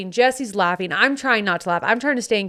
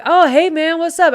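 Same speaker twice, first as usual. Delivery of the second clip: high, loud cheery hello; friendly greeting; 8 semitones higher, 5 dB louder than usual. Retold or imitated. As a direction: greet a new guy brightly. Friend greeting stranger warmly.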